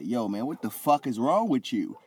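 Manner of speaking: high-pitched mock outrage, building from the first line; Roderick Strong, angry. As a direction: play an indignant friend chewing someone out, pitched high. Retold angry confrontation by Roderick Strong.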